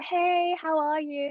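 high, sing-out hello; chirpy phone greeting. Retold or imitated. Recruiter greeting an applicant on the phone, chirpy. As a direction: imitate a cheery caller, pitched well up.

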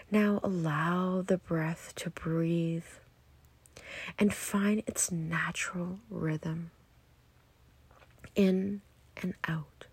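unhurried meditation guiding, softening at phrase ends; guided meditation. Acted. Guide leading listeners into natural breath, calm meditation voice. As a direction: ease them into their breathing, letting phrases fade.

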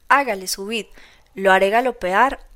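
put-on loud drunken boast; showing off to the crowd, loud; shouting. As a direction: call them onto the cart at full voice. Drunk driver calls everyone aboard.

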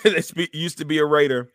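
laughing through the words; fighting back a giggle; trying not to laugh. Real, not acted. Laughs mid-sentence about Del Rio.

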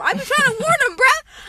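fed-up warning call; half-yelled frustration; exasperated shout. Real, not acted. Exasperated about coworker.

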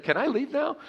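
awkward colleague. Retold or imitated. Colleague's awkward reply retold.

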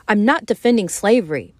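steady, convinced protest; with conviction. Acted. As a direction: plant your feet and deny it. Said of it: "Rogan said with conviction".

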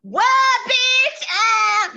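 shrieking comeback at mom's calm advice; loud retort. Retold or imitated. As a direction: snap back at her mom. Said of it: "And I'm like".

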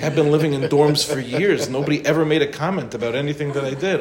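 like a bewildered new husband venting; exasperated complaint. Retold or imitated. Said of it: "It's like".

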